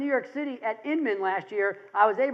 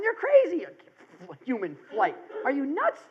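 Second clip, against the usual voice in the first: mock disbelief; 2 semitones higher than usual. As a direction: scoff like a doubting onlooker. Mocking doubters of the Wright brothers.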